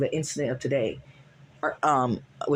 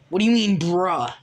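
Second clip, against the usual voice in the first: yelling as Vin; 2 semitones higher, 6 dB louder than usual. Retold or imitated. Vin yelling at Eddie over the hacked account, loud. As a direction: bark the question back at him. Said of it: "By the way, when I'm yelling, that's Vin".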